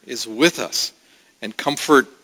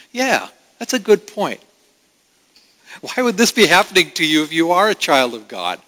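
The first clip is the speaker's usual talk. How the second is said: Satan taunting; 3 semitones higher than usual. Acted. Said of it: "Satan very happily joins in".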